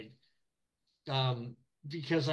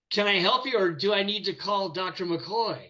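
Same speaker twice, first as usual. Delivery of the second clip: louder, teasing offer of help; cheeky joke; 4 semitones higher, 3 dB louder than usual. Retold or imitated. Greeting a limping Shatner with a cheeky joke, louder and teasing. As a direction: play it as a cocky wisecrack. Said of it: "and I was like".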